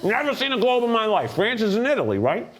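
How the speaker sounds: hammed-up airhead who never saw a map; mock clueless voice. Mock clueless self after map joke.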